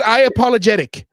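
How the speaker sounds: "I apologetic" with a mock, half-hearted stress on "apologetic"; lightly mock the player saying "I apologetic"; mock wrong wording. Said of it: "Not, "I apologize".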